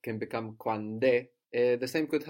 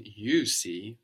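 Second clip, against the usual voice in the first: "you" drawn out slowly before "see"; stress on YOU. Shown as a demonstration. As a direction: lean slowly on the word "you". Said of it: "the optional you ... for emphasis".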